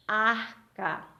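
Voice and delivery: "Arca" split as AR-CA; sílaba por sílaba. Shown as a demonstration. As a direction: sound out both syllables of "Arca" separately. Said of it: "duas sílabas". (separando em duas sílabas)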